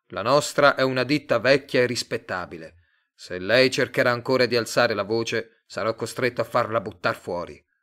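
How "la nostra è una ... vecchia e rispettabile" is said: ordinary delivery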